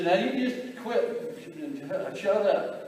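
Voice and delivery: high, slow, sternly scolding mom's voice; a mother telling noisy boys to hush, mock stern. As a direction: drag out a mom's fed-up scolding. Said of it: "She says".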